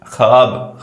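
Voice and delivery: ख्वाब said as "khaab"; long aa straight after kh in ख्वाब; silent waw. Shown as a demonstration. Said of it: "ख्वाब पढ़ेंगे".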